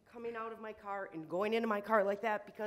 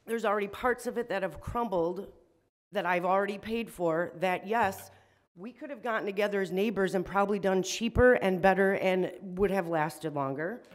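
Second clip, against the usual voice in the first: louder, strained upset pleading; emotional, upset; 7 dB louder than usual. Real, not acted. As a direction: voice pushed up by real frustration. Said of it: "Sorry I'm shaking because I'm very emotional".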